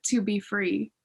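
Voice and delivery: holding back tears while speaking; choking up. Real, not acted. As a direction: voice tight with real tears. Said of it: "Man, I'm choking up again".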